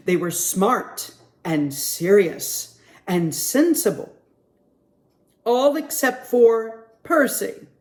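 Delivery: put-on lively storybook read-aloud for kids; reading to children. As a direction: read it like story time at the library. Librarian reads picture book aloud.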